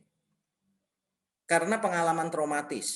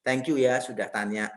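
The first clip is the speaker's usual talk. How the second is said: lower, gentle thank-you; a calm, grateful husband's answer; kind reply; 7 semitones lower, slower than usual. Retold or imitated. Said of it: "Kan bisa aja kita jawab gini".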